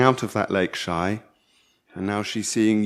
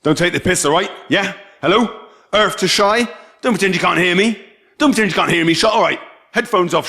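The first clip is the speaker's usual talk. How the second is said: nagging voice; 4 semitones higher, 3 dB louder than usual. Acted. Voices people nagging Shy.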